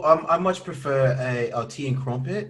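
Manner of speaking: lightly posh English tea talk; a hint of a posh Brit; mock posh English. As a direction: play a civilized Englishman, quick. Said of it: "I don't have a English accent".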